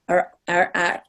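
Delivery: R, R, R rolled on the tongue tip; rolled R sounds. Shown as a demonstration. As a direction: stretch the mouth and roll each R. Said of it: "give your mouth a bit of a stretch".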